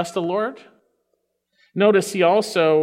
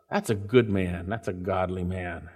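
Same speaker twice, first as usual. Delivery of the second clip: much softer and lower, almost breathed; hushed; 11 semitones lower, 7 dB quieter than usual. Real, not acted. Preacher hushing the congregation, much softer and lower. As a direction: drop to a near hush on godly man.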